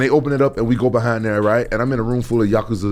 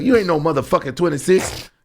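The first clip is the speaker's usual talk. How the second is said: mock gangster voice; 8 semitones higher than usual. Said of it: "They was like".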